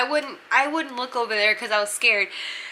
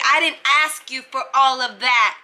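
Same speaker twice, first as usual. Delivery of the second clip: mildly raised, imitating an angry woman; mock snapping back, a bit louder; retold loud outburst; 4 dB louder than usual. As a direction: imitate someone getting loud. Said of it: "She got real loud".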